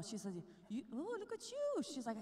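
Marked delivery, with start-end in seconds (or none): 0.7-1.8 a sassy friend teasing, pitched higher; imitating a sassy friend's scolding; sassy woman. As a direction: tease her with a sassy lilt. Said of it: "She was sassy".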